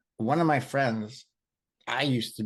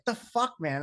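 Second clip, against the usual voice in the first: much higher, squeaky disbelief; imitating a stunned friend, pitched way up; mock incredulous buddy; 11 semitones higher than usual. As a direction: play the buddy's baffled squeal. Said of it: "He's like".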